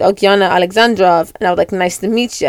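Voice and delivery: a barely there, bad Bulgarian accent; terrible Bulgarian accent. Giving a fake name at the spy party, in a weak Bulgarian accent. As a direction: lightly fake a Bulgarian accent for the role-play. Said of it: "kind of terrible Bulgarian accent".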